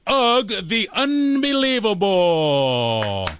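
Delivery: drawn-out showman intro, name stretched slowly; announcer introducing the caveman magician. Acted. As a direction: hype up the crowd for the act.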